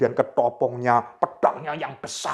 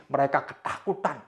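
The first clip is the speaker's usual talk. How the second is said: ordinary talk, nothing marked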